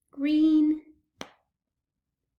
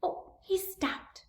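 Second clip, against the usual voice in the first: disappointed whisper; 4 semitones higher, 6 dB quieter, slower than usual. Acted. Toy stopped moving.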